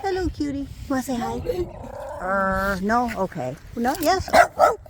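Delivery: high, coaxing pet voice; high sweet talk to a cute dog. Real, not acted. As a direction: coax the dog to say hi. Talking to dog.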